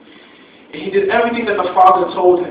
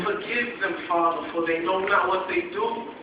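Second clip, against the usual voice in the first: softer, hushed prayer; quiet plea; 6 dB quieter than usual. Acted. Jesus quietly asking the Father to forgive them, hushed. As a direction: breathe it as a gentle plea.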